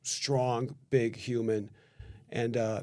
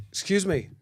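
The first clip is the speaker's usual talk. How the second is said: higher, polite opener to the stranger; polite approach; 6 semitones higher than usual. Retold or imitated. Neighbor approaching a sedated stranger, higher polite call. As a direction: get his attention gently but up high. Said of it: "and I'm like".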